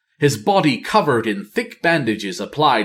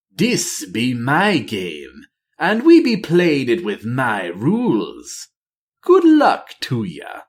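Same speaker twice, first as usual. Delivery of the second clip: mocking troll Loa; slower than usual. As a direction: taunt him, then toss off a gleeful farewell. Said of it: "Bwonsamdi jeered".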